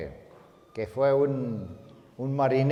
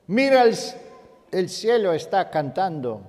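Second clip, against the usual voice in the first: prédica alta y aguda; exaltación gozosa; 6 semitones higher, 5 dB louder than usual. Real, not acted. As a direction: proclama con fuerza la alabanza. Predicación exaltada de alabanza y gozo. (predicador exaltado, en voz alta)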